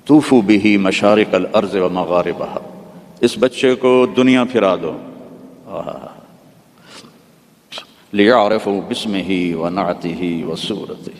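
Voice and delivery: slow, solemn heavenly proclamation; voice from the fog. Retold or imitated. Preacher voicing the call from the fog, slow and solemn. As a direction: intone it slowly like a voice from heaven. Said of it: "اس fog کے اندر سے آواز آئی".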